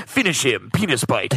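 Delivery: gravelly arcade announcer call; video game announcer voice. Acted. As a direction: announce it like a fighting game finisher. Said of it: "really good video game penis bite sound".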